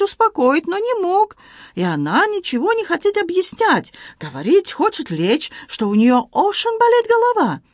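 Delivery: excited Frenchman in broken Russian, high; Antoine voice. Acted. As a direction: play the flustered Frenchman, pitched high. Antoine worried.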